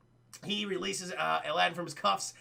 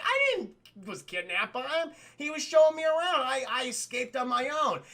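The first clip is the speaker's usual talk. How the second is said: higher, insistent retort; indignant protest; 5 semitones higher, 4 dB louder than usual. Retold or imitated. Princess denies she was kidnapped, indignant protest. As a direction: set the record straight, voice climbing.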